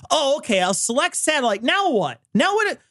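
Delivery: lightly voiced fumbling dad; puzzled dad struggling with the remote; confused dad. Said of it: "your dad trying to watch something on demand".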